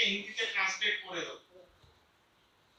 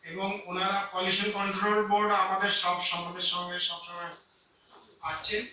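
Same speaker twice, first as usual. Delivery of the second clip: echo. Real, not acted. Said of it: "আমাদের এখানে আওয়াজ এত ইকো হচ্ছে".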